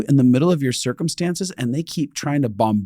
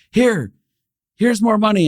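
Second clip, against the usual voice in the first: high, eager push of the offer; eager giving; 10 semitones higher, 5 dB louder than usual. Retold or imitated. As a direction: press the money on her brightly. Runs back to give money.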